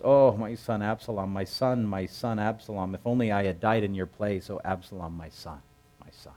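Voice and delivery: grieving, fading to almost nothing; weeping lament. Retold or imitated. King mourning his dead son, sorrowful fading lament. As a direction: let the grief drain the voice away word by word. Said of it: "And as he wept, he said thus".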